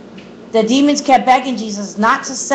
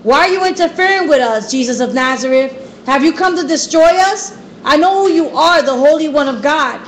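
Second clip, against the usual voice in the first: higher-pitched, urgent outburst read aloud; raised, insistent challenge, mildly acted; shouting demon; 4 semitones higher than usual. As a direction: act out a demon crying out at Jesus. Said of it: "began shouting at Jesus".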